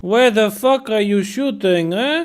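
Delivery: mock soldier yell. Translating the soldier's yell, mock angry shout.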